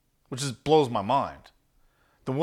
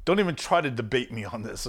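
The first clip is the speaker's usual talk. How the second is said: firm, no wiggle room; 3 semitones lower, 3 dB quieter than usual. Shown as a demonstration. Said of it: "that's how it needs to be delivered".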